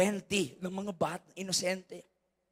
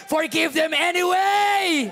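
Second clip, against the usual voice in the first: "Forgive them anyway!" shouted much higher and louder, slowed; shouted repeat; 9 semitones higher, 9 dB louder, slower than usual. Shown as a demonstration. Pastor repeating his plea to the congregation, now shouted. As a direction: hammer "anyway" with a full-voice cry. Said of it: "Hindi mo kailangan mag-antay".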